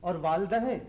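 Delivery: measured verse recital with stretched words; poetic declamation. Acted. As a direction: recite the grievance like a couplet. Son declaims his complaint as verse.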